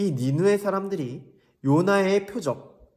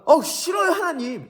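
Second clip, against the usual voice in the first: much higher, whining refusal; whiny Jonah; 11 semitones higher, 3 dB louder than usual. Acted. Jonah refusing God's command, whiny. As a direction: whine no like a sulky kid. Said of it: "이랬을까요?".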